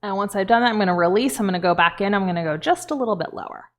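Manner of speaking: talking with a thumb in the cheek; muffled, fingers hooked in mouth; muffled by hand in mouth. Real, not acted. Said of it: "it's hard to talk with my hand on my mouth".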